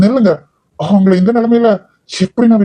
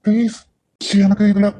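hushed begging to the married woman; hushed pleading; 3 semitones higher, 6 dB quieter than usual. Acted. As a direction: keep it down so nobody hears. Man pleads secretly, hushed.

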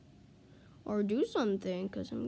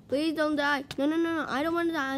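raised, urgent begging; panicky pleading; 4 semitones higher, 3 dB louder, faster than usual. Real, not acted. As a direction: plead frantically mid-fight. Pleading while fighting in game.

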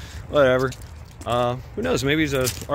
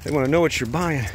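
imitating the clerk; 4 semitones higher than usual. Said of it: "He's like".

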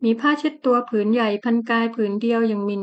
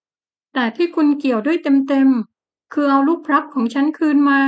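slow, louder demand through held-back sobs; fighting sobs, firm; 3 semitones higher, 4 dB louder, slower than usual. Acted. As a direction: swallow the tears and insist. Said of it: "ต่อสู้กับแรงสะอื้นแล้วบอกจริงจัง".

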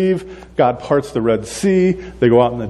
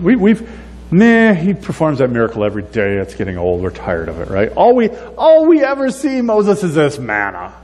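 a high mock whine rising to Moses; whiny complaint; 5 semitones higher than usual. Israelites griping to Moses about manna, whiny. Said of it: "But they're like".

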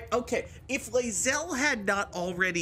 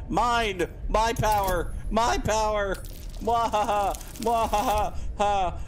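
mad scientist; 2 semitones higher than usual. Pretend. Gloating over stolen power.

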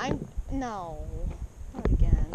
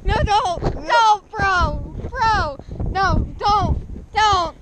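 loud protest; 5 semitones higher, 4 dB louder, much slower than usual. Real, not acted. Pleading friend to stop.

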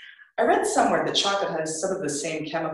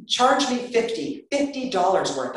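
manic; 7 semitones higher, 4 dB louder than usual. Acted. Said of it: "maniacally piling more and more candy".

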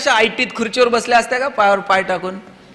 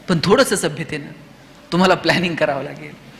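gentle coaxing; 4 semitones lower than usual. Acted. Teacher to a swearing child, gently redirecting.

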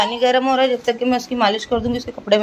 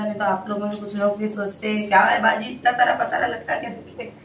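words dissolving into a soft laugh; amused, laughing it off; laughing while talking; 5 dB quieter than usual. Real, not acted. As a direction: joke at yourself and laugh through the end. Laughing at imagined comment.

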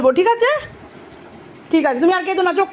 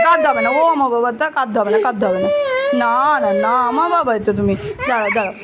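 soothing; 5 semitones lower, faster than usual. Real, not acted. Comforting crying child.

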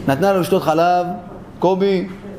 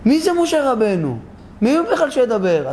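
goading, dismissive wife; 4 semitones higher than usual. Acted. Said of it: "רק הדליקה אותו".

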